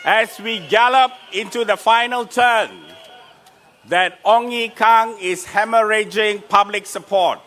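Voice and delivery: shouting to a rally crowd. Real, not acted.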